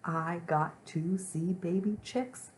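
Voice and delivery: very excited. Shown as a demonstration. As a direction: stretch the words out with building excitement. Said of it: "I'm very excited".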